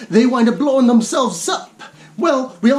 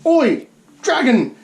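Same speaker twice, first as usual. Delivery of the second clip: mock British; 2 semitones higher, slower than usual. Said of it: "because he's British".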